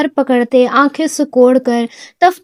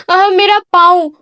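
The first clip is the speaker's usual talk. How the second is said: crying out; 5 semitones higher than usual. A narrator's reading. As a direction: yelp dramatically for sympathy. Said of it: "دوبارہ چیختے ہوئے کہا".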